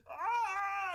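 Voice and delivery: high-pitched burning scream; horrible shriek. Retold or imitated. Burning Sith Lord fleeing to the temple, high shriek. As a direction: shriek like you are on fire. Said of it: "horrible high-pitched shrieking".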